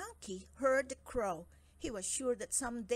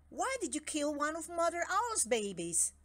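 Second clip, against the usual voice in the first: stern king; 7 semitones higher, 4 dB louder than usual. Acted. King questions monkey.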